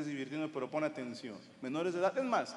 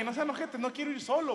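whiny pleading; 9 semitones higher than usual. Retold or imitated. Begging friends to come.

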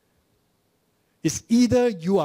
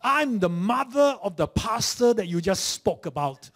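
lightly voiced proud old lady, pitched up; proud old mother; 6 semitones higher, 4 dB louder than usual. Mother of the pastor to the usher: lightly haughty. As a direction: announce who you are with mild pride.

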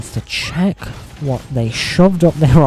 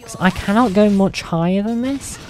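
trying out a higher voice, held a little high; testing her higher register; practised higher voice; 3 semitones higher than usual. Shown as a demonstration. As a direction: lift the voice for voice training. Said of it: "I need to work on voice training".

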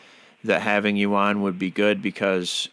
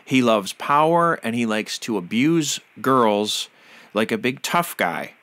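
real indignation, with heavy emphasis; upset. Real, not acted. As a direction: stress the key words, upset and outraged. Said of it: "it makes me really upset".

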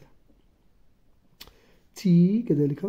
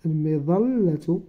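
slow careful word; much slower than usual. Shown as a demonstration. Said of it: "إذن أقول هنا".

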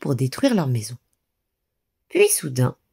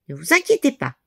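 reassuring; 7 semitones higher, faster than usual. A narrator's reading. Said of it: "les rassura Nouf Nouf".

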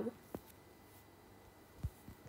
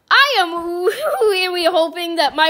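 laughing; 3 dB louder than usual. Real, not acted. Laughing while hoping.

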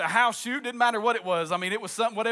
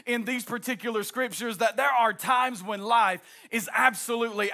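full-force preaching. Acted. Preaching to the children of God.

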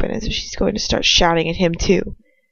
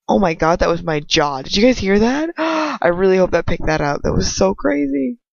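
excited. Real, not acted. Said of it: "reacts excitedly to sound".

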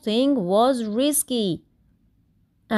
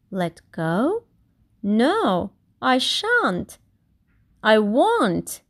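mild mock shout; slower than usual. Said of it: "shouted Kevin".

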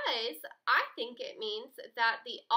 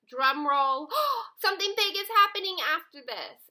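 loud, higher and fast with a gasp; dramatic buildup; 6 semitones higher, 8 dB louder than usual. Shown as a demonstration. Teacher acting out an ellipsis for students, loud and excited. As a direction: hype the reveal like a drum roll. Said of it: "our ellipses is telling us".

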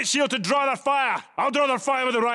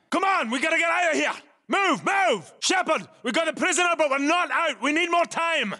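frantic yelling; 6 semitones higher than usual. Acted. Squad leader shouting to pilot and teammates during extraction, frantic yelling. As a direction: yell for the team to get out now.

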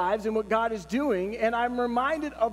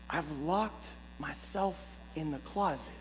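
soft, low, hushed confession, imitating wife; whispering; 5 semitones lower, 9 dB quieter than usual. Wife admits to her husband she is locked in, whispering. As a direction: confess it under your breath. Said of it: "Why are you whispering?".

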